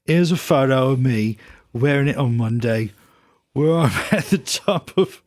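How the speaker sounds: put-on light Midlands accent reading a letter; a hint of a Black Country accent; a singer's Midlands accent. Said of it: "I'm gonna read it like a singer".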